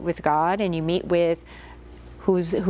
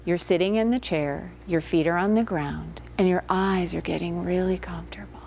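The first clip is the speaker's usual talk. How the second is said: hypnotic suggestion. Shown as a demonstration. Therapist demonstrating a suggestion to a client, hushed and soothing. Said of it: "So if I said to you".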